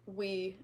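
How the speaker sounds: 'We' with a w sound; joking mispronunciation. Retold or imitated. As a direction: start 'We' with rounded lips, like English 'we'. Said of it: "as a joke, he would be like".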